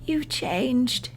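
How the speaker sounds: a hushed, fragile remark; softly. A narrator's reading. Anne speaks faintly.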